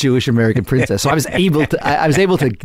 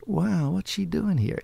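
surprised thought; 6 semitones higher, 9 dB quieter, slower than usual. Retold or imitated.

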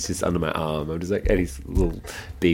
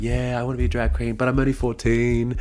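put-on eager teen boy; 6 semitones higher than usual. Voicing the fourteen-year-old boy.

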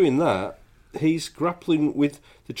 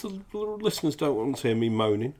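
man flu; 2 semitones higher than usual. Real, not acted. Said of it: "moaning about my man flu".

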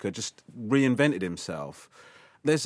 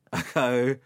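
ordinary delivery

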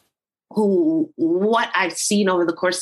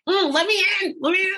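eager pleading; 12 semitones higher than usual. Retold or imitated. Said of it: "I'm sitting here like".

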